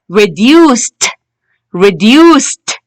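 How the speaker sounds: "reduced" ending in a released t; teacher's model "reduced", final t set apart; final t sound. Shown as a demonstration. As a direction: say "reduced" with ed as a crisp t. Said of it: "We can hear the t".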